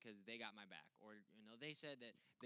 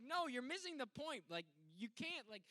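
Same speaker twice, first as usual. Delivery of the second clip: high, loud scolding; stern parents; 11 semitones higher, 4 dB louder than usual. Retold or imitated. Parents correct Logan, high and loud. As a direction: correct the kid firmly. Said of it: "my parents are like".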